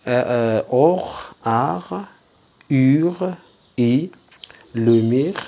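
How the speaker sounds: sounds called out high and loud; loud sound drill. Shown as a demonstration. Teacher drilling sounds for pupils, loud and high. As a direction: drill each sound loudly for the class. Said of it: "drills sounds to class".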